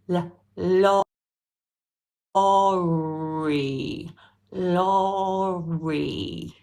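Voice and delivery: lorry slowed with a clear tongue-tip l; careful teacher demo of lorry. Shown as a demonstration. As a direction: show the l then say lorry. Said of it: "Now look".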